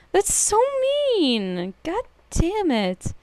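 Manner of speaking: laughing. Real, not acted. Laughing at Hao.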